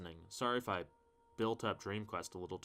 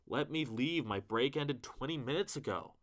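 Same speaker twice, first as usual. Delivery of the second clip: exasperated plea; 4 semitones higher than usual. Pretend. Fed up with an endless eighty-page book, mock-desperate plea. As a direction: beg to be let out, hammed-up frustration. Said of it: "my post-Lovecraft stress disorder again".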